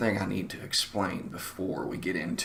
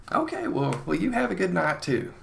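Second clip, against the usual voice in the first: higher-pitched, chipper politeness; polite farewell; 10 semitones higher than usual. Retold or imitated. Salesman to departing older woman, chipper polite farewell. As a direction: sign off with salesman cheer.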